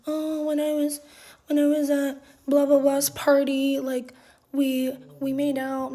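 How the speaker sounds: a hint of sheepish boyfriend; mock boyfriend voice. Imitating the boyfriend confessing the cheating, lightly mocking.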